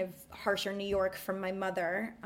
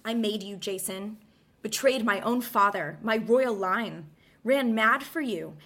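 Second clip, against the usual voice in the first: scornful, raised theatrical monologue; Medea's bitter speech; 3 semitones higher, 4 dB louder than usual. Acted. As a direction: hurl it at Jason like a betrayed queen. Dramatic Medea monologue read.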